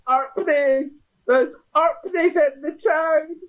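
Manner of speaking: very high squealed mock cry; mock alarmed shout. Game master voices Amberley spotting Arpneys in town, high mock shout. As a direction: raise the alarm in a thin, strained falsetto. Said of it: "Amberley will shout".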